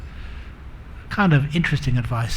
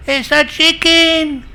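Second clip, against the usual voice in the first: very high, slow, drawn-out yell; shouted squabble; 12 semitones higher, 4 dB louder, slower than usual. Acted. Wife yells back at her husband, stubbornly furious. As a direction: yell it stubbornly, stretching each word.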